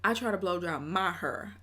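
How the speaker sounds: lightly mimicked singer's line; a hint of a singer's phrasing; imitating a singer. Repeating the clip in a light singer's voice. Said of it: "I'll get back to my hair".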